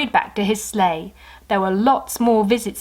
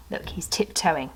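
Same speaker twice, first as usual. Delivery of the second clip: unvoiced, softer comment; whispered aside; 3 semitones lower, 6 dB quieter than usual. Real, not acted.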